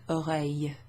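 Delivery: OREILLE ending in a y glide, no L; y sound. Shown as a demonstration. Teacher showing it's the same here, y ending. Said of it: "It's like a y sound".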